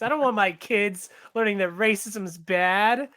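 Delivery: slow, mock-outraged parent voice; sarcastic. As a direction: play a fake pearl-clutching parent, dragging it out. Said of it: "That's a joke".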